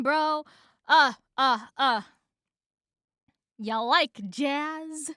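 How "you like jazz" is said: slow, drawn-out bee line; successful movie-line impression. Shown as a demonstration. Reader finally lands the film bee's line, slowly. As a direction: ease it out slowly as a question. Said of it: "There we go".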